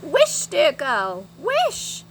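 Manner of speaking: slow, urgent, rising to a high cry; urgent urging. A narrator's reading. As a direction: urge her on excitedly. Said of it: "shouted Moonface".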